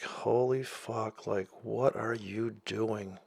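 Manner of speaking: slow, drawn-out mock shock; mock horrified lady. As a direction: imitate a horrified shopper. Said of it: "She looked at me like".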